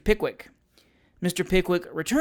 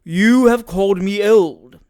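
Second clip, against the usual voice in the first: low deep voice; 3 semitones higher, 10 dB louder, slower than usual. Acted. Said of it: "speaking in a low, deep voice".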